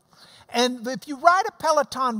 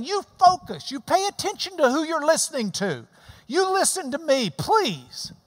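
higher, pressing command easing to please; Paul's urging; 5 semitones higher than usual. Retold or imitated. Preacher voicing Paul pleading with listeners to focus. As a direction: urge them firmly, then soften. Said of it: "And Paul's saying".

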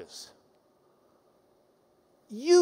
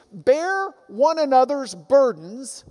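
slow, weighty scripture reading; slower than usual. Acted. Preacher reading scripture slowly to the congregation. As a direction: read the verse slowly with weight. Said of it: "So he continues".

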